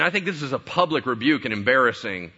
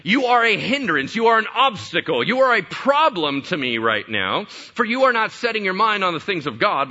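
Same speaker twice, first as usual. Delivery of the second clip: loud, high, forceful rebuke of a disciple; stern rebuke; 7 semitones higher, 6 dB louder than usual. Retold or imitated. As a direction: scold him sharply, lifting the pitch. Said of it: "And he said".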